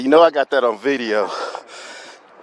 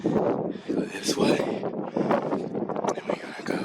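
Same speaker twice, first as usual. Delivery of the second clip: out of breath; 5 semitones higher, 9 dB quieter, slower than usual. Real, not acted. Heavy climb, whispering breathless.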